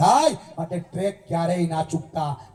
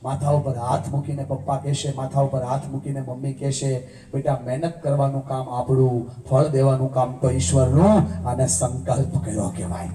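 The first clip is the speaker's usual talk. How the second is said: emotional preaching; 6 semitones lower than usual. Acted. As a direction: pour your heart into the vow as you preach it. Emotional vow preached over music.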